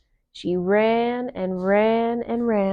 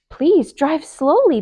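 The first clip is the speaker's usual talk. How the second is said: high, louder pleading mouse; begging; 6 semitones higher, 7 dB louder than usual. A narrator's reading. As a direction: plead with the driver. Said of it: "begged Annie".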